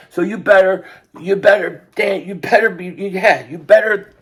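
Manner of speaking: fired-up warning. Real, not acted. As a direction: warn rivals with mounting heat.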